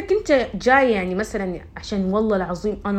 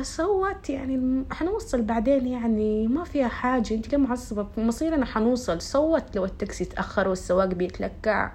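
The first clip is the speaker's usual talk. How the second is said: calm, relaxed reply; 2 semitones higher, 4 dB quieter than usual. Retold or imitated. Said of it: "قلت لها".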